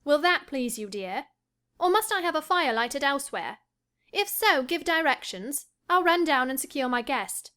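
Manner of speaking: mock his snobbery playfully; mocking teasing. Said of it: "half angry, half laughing at his fastidiousness".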